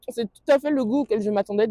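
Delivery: talking while chewing; words through a mouthful; mouth full. Real, not acted. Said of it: "désolée de parler à bouche pleine".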